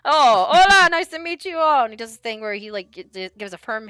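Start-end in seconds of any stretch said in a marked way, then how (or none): 0.0-1.8 hearty greeting. Acted. Father greeting guests.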